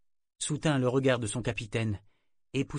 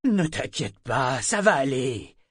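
slow, insistent reassurance, a bit louder; stubbornly soothing; 3 semitones higher, 5 dB louder, slower than usual. Acted. First mate calming the panicking figurehead, stubbornly soothing. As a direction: keep calming him no matter what. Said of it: "d'un ton obstinément apaisant".

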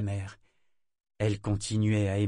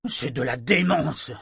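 slow, louder, indignant outburst; furious; 3 semitones higher, 6 dB louder, slower than usual. Acted. Mate furious over the boy's chafed ankles, angry. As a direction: spit out the outrage. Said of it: "d'un ton furieux".

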